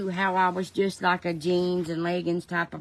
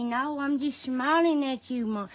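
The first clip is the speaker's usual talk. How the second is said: put-on baby voice; 4 semitones higher than usual. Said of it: "baby voice to their pets".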